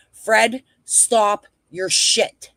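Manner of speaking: slow, drawn-out stern telling-off; scolding. Real, not acted. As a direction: put a chatter firmly in his place. Host scolding a chat user.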